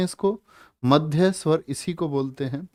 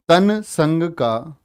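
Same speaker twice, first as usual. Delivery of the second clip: very slow reading; much slower than usual. Shown as a demonstration. Teacher drawing out question words.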